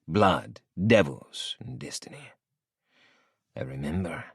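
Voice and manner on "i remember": cool. A narrator's reading. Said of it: "I answer coolly".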